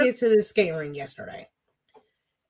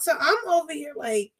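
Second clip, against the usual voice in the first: usual speaking voice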